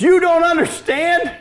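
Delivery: incredulous lady. Retold or imitated. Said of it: "one lady goes".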